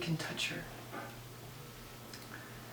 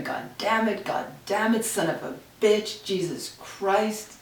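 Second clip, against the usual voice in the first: father swearing; 3 semitones higher, 4 dB louder than usual. Retold or imitated. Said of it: "The screaming, the swearing".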